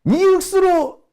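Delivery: high, teasing Busan dialect call; Busan friend. Retold or imitated. School friend teasing him on the phone, high Busan dialect. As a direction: tease him like a Busan mate. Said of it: "이러면서".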